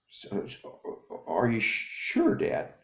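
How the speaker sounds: stutter. Acted. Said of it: "he stutters".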